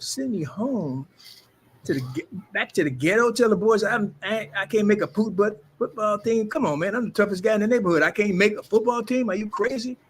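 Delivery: rising, incredulous retelling of his own outrage; indignant disbelief. Retold or imitated. Retelling how he reacted to being cut, incredulous and indignant.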